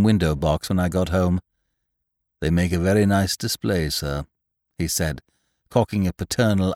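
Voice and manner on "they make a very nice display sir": deferential butler. Acted. Voicing Jeeves.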